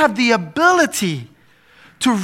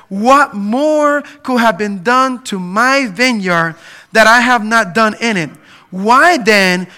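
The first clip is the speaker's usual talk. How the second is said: slow, louder lamenting reading; preached scripture reading; 4 dB louder than usual. Acted. Pastor reading God's vineyard lament, slow and louder. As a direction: read it as God's grieved question.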